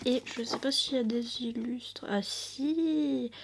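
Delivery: soft breathy whisper. Real, not acted. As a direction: whisper it under your breath. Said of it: "unvoiced whisper".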